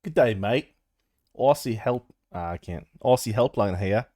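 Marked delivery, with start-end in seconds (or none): 0.0-2.1 put-on Australian accent. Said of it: "Can you do a-, Australian?". 3.0-4.1 attempted Aussie helpline voice; Australian accent. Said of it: "Can you do a-, Australian?".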